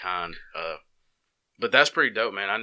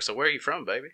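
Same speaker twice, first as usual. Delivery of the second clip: barbecue woman; 6 semitones higher, faster than usual. Retold or imitated. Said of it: "big old, just good cooking barbecue woman".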